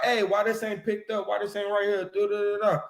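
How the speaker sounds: nagging mother. Retold or imitated. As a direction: scold your own kid about chores. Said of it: "But to her kid, right, she like".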